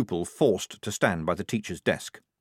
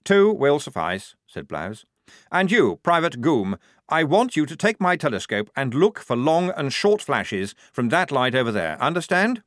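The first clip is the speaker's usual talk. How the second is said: higher, eager officer voice giving orders; a keen lieutenant pleased with his plan; fussy young officer; 5 semitones higher, 4 dB louder than usual. Acted. Lieutenant ordering the assistant, higher and eager.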